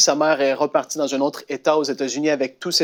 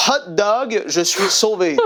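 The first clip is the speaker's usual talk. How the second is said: excited cry; 4 semitones higher, slower than usual. Retold or imitated. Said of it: "Et il a crié".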